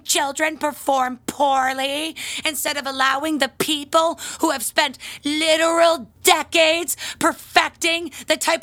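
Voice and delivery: a hint of a snooty parent; mocking the parents. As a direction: sneer through a mild mock parent voice. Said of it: "So they say to the rest of us".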